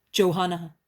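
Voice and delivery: first gentle call of her name. A narrator's reading. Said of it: "He then calls her".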